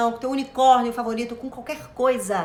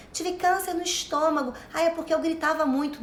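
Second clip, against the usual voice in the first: imitating; 4 semitones higher than usual. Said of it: "gente que fala assim".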